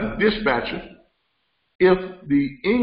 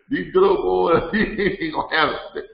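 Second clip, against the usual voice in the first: laughing repeat; 5 semitones higher than usual. Real, not acted. Host repeating his own punchline for viewers, laughing. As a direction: let the laugh spill into it.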